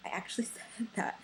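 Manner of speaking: whispering through a laugh; a giggly whispered aside. Real, not acted.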